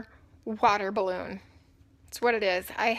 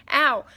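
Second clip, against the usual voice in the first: pained yelp; 4 semitones higher, 8 dB louder than usual. Real, not acted. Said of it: "laughing hurts".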